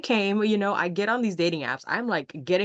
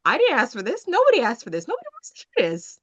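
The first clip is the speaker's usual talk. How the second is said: mock exasperated protest, rising higher; building complaint, higher as it goes; 4 semitones higher than usual. Telling off a man faking her accent, exasperated.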